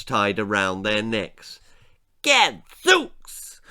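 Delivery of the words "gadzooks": high, loud startled shriek. Acted. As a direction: shriek it out in shock. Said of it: "shrieked the lord".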